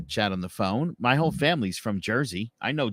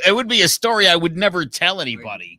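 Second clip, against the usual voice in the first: laughing; 7 semitones higher, 9 dB louder than usual. Real, not acted. Laughing after the story.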